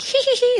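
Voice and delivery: high mischievous giggle, hee hee hee; prank giggle. Retold or imitated. Prankster giggling after pretending to be someone else, high mischievous giggle.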